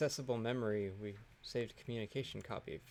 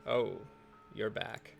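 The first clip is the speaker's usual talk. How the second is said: lightly voiced grumpy old man; a hint of a tired old man greeting; slower than usual. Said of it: "Old man voice".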